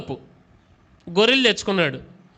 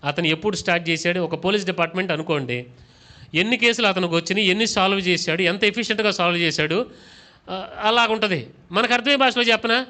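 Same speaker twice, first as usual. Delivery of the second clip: usual speaking voice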